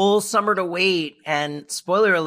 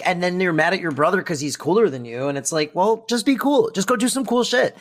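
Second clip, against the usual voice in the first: exasperated, higher-pitched telling-off; mock lecture; 4 semitones higher than usual. Host lecturing the stuffy character, mock exasperated. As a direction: scold him like a fed-up friend.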